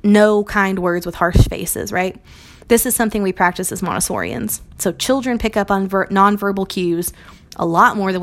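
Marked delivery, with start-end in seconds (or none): 0.0-1.9 slow quote. Retold or imitated. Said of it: "So when Brene says".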